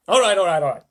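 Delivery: loud, cheerful call over the crowd; shouting Mister Wonka. A narrator's reading. Wonka calming the singing Oompa Loompas, loud and cheerful. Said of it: "shouted Mister Wonka, laughing".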